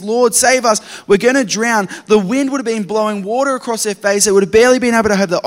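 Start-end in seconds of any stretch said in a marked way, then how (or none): 0.0-1.9 loud, high desperate cry for help; panicked yell. Acted. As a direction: shout it over a roaring storm, slowing on the last words. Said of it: "yelling this out to Jesus".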